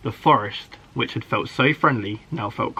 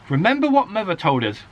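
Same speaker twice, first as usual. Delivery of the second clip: calling out; 7 semitones higher than usual. A narrator's reading. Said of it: "called Alfie".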